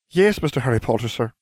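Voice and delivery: slightly squeaky house elf; squeaked. A narrator's reading. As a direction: answer as an eager little elf. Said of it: "he squeaked".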